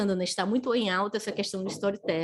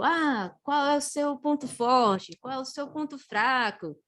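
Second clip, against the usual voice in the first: higher, drawn-out mock interview question; mock silly question; 4 semitones higher, slower than usual. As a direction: lightly mimic a trite interviewer question. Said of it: "São perguntas bobinhas".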